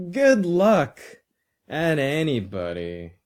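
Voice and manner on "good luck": high, louder mock call; imitated yell. A narrator's reading. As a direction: mimic yelling it at someone, pitched up. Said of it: "I'd never yell".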